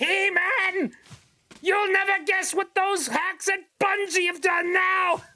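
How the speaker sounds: cartoon-villain voice, pitched very high. Speaker pictures a cartoon villain as a big fan of a game studio: Skeletor voice. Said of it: "Skeletor to be a massive fan of Bungie and just being like".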